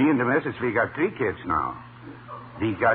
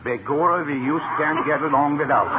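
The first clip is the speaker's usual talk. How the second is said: mock Irish voice; 4 semitones higher, 3 dB louder than usual. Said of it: "I changed my voice with Irish dialect".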